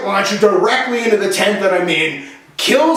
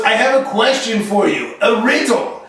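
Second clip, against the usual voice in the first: put-on French Canadian accent. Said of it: "he was French, he was from Quebec".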